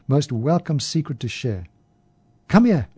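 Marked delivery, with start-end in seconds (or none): 2.5-2.9 easy invitation. A narrator's reading. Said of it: "in an easy vernacular".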